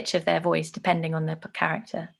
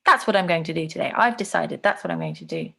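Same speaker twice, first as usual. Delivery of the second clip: decided, tune falling away at the end; certain. Acted. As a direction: state it as a settled decision. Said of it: "more certain. It sounds like".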